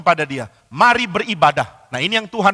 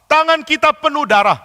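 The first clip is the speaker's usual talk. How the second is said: madman shouting; 7 semitones higher, 4 dB louder than usual. Acted. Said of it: "Orang ini teriak mengatakan".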